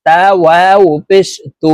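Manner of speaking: "তু" with its long u drawn out; final "তু" held long and steady; one-alif elongation. Shown as a demonstration. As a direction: stretch the vowel of "তু" for one alif. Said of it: "একালিপ টান হবে".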